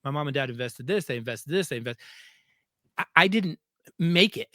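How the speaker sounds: put-on a touch of a crushed kid who let his parents down; voicing the kid, mildly dejected. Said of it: "this kid has to go through going".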